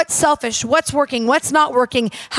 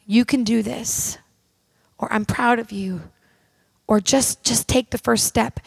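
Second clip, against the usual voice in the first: gentle encouraging voice; 3 semitones lower, 3 dB quieter than usual. Retold or imitated. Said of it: "a voice that will come up".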